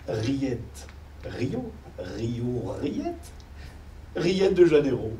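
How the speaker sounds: lightly crooned pun; pitching a pun. Shown as a demonstration. Composer pitching a slogan to the client, lightly crooned. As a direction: lay out the pun like a jingle idea. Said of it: "Et j'ai pensé".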